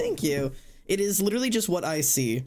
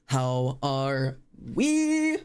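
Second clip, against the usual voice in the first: very slow, stretched greeting; slowly drawn-out How are we; 2 semitones lower, much slower than usual. Pretend. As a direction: stretch every word lazily.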